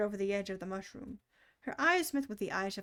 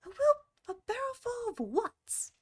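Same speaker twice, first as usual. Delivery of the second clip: puzzled; 12 semitones higher than usual. Acted. Alice wonders.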